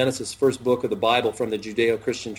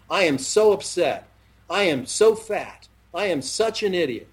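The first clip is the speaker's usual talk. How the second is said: mock self-pity; 4 semitones higher than usual. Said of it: "using their I ams haphazardly".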